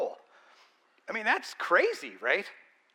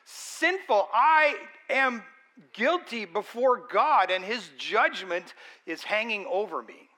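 higher, louder, pleading with mounting urgency; desperate confession; 3 semitones higher, 4 dB louder than usual. Acted. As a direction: cry it out as a guilty sinner begging God. Voicing a convicted sinner's confession.

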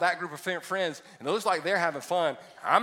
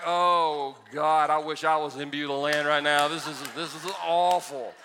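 inner groan; 4 dB louder than usual. Retold or imitated. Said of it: "I'm like".

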